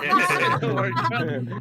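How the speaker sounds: high giggly laugh through words. Real, not acted. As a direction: crack up while saying it. Giggling at innuendo.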